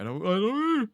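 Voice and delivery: loud, rising high squeal; confused squeal. Real, not acted. Player unsure of the mouse controls, high confused squeal. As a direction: let confusion climb into a squeal.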